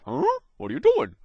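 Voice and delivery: high cartoon-dog yelp of confusion; Scooby-Doo. Startled stranger questioning a helper, cartoon-dog impression. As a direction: put on a high, baffled dog voice. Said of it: "They sound like Scooby-Doo".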